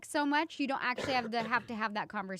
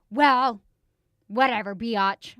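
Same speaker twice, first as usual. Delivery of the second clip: loud, slow mock sass; daughter's attitude; 9 dB louder, much slower than usual. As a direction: imitate a sassy preteen talking back. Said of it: "that's her little attitude".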